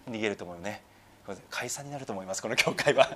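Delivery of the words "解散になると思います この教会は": amused delivery breaking into laughter; laughing joke. Real, not acted. Pastor joking that the church would disband, laughing. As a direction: let laughter creep in toward the end.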